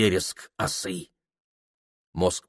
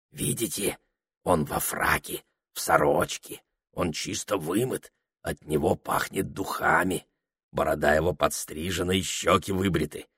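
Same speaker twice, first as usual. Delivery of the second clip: hushed, softer confiding voice; low, softer secretive telling; whisper; 4 semitones lower, 6 dB quieter than usual. A narrator's reading. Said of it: "шепчет он".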